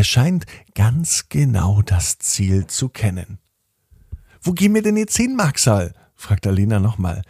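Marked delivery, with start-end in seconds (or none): 4.4-5.9 much higher, slightly anxious question; a bit nervous. A narrator's reading. Alina asks her horse again where they are going, a bit nervous. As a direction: ask it high, with a touch of nerves. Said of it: "diesmal schon etwas nervöser".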